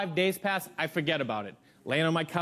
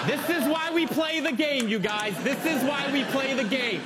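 excited; 5 semitones higher than usual. Real, not acted. Hyping up the prank.

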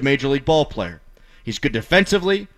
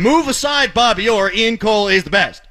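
mock hype; 4 semitones higher than usual. Mocking fans' overhype.

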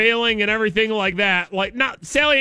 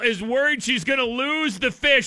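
earnest, slightly raised play-by-play; mock sports commentary; 4 semitones higher than usual. Host narrates angler fighting a fish, mock play-by-play. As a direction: call a fishing trip like live sport.

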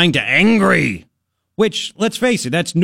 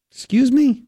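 mock offended; 8 semitones higher than usual. Real, not acted. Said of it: "mock offended".

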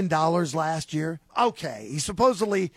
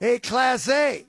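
put-on Boston accent; 4 semitones higher, slower than usual. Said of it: "trying to do my Fenway Park impersonation".

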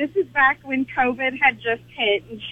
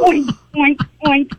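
imitated oinking; 4 dB louder than usual. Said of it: "she's going".

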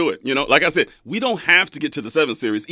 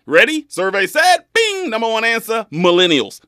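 mock game show host; 7 semitones higher, 6 dB louder than usual. Game show answer reveal.

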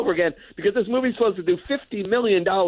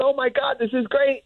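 put-on higher, thrilled little kid voice; mock delight; 8 semitones higher than usual. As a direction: gush like a kid finally getting good candy. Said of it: "So then you're, like, going".

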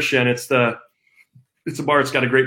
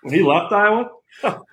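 lightly voiced coach, with a chuckle or two; a hint of a folksy head coach praising his player; answering the host in character as the coach, lightly done; Kirk Ferentz impression. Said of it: "Coach Ferentz, just, uh, run us down".

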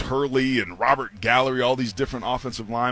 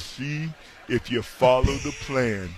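Lou Holtz impression. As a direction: lightly imitate the old coach preaching the plan. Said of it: "such a good impersonation".

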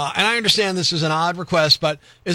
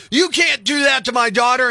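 raised voice, shouting at the nurse; mock protective shout; 4 semitones higher than usual. Dad shouting the male nurse out of the room. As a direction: hustle him out, yelling in defense. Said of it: "and be like".

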